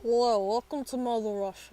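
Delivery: hammy Russian welcome; mock Russian host; Russian accent. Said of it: "with a Russian accent".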